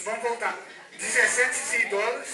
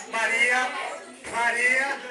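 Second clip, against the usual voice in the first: chamando alto; 5 dB louder, slower than usual. Real, not acted. Calling out to a bidder.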